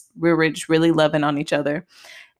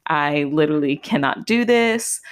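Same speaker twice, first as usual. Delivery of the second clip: despairing. Retold or imitated. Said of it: "go back and forth between being like".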